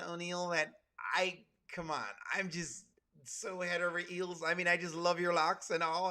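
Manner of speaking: put-on white American voice, halting and gushy. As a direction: imitate an overwhelmed white American, trailing off in sighs. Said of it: "impression of what he thinks".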